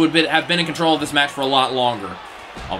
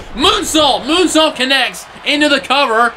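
excited call; 8 semitones higher than usual. Real, not acted. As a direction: sell the moonsault with a high yell. Big move lands live.

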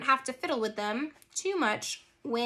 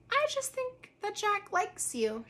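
sly teasing; 9 semitones higher, 3 dB quieter than usual. A narrator's reading. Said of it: "sly little smile".

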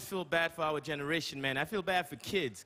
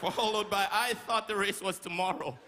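race announcer. Retold or imitated. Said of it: "It's always like".

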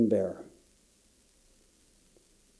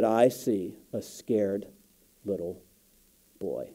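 fading soft quote; 4 semitones lower, 8 dB quieter, slower than usual. Retold or imitated. Quoting the woman's gentle verdict.

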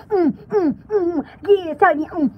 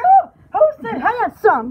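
play-acted startled question; mock a man hearing a ghost; 3 dB louder than usual. Man answering the flirting ghost, mock startled voice. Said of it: "that man be like".

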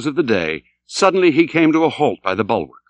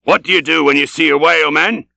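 raised, higher captain's voice; vehement cry; 4 semitones higher, 4 dB louder than usual. Acted. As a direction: fire the question at the crew. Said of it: "vehemently pausing, cried".

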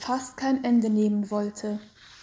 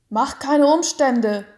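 louder, gruff dismissal; rough man; 3 semitones higher, 8 dB louder than usual. A narrator's reading. Executioner brushes off the mother's plea, gruff. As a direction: shove her plea aside harshly. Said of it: "sagte der raue Mann".

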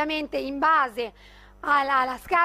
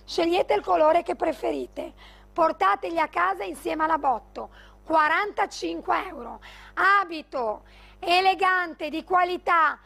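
infomercial; 2 semitones higher than usual. Acted. Live sales pitch, prices shouted.

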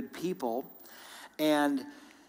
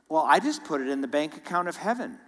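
quick, matter-of-fact quoting of a friend; 3 dB louder, faster than usual. Retold or imitated. Pastor quoting his generous old friend, matter-of-fact. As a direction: toss it off briskly, as a given. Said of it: "So matter-of-factly".

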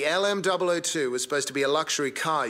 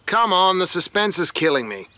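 louder, urging the reveal; eager impatience; 3 semitones higher, 5 dB louder than usual. Real, not acted. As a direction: come on, hurry it up. Eager reveal of mystery car.

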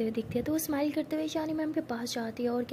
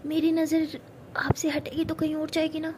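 whisper; 2 semitones higher than usual. Acted. Pari whispering flirtatiously to Ishani. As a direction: breathe it close to her ear.

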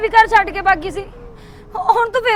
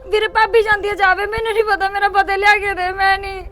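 speaking through tears; frightened mother, near sobbing; crying. Acted. Sister telling her brother about the call, crying.

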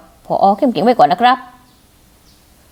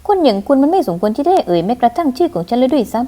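cold contempt. Acted. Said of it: "แบบนี้สิ ถึงจะเป็นคนที่ฉันรู้จัก".

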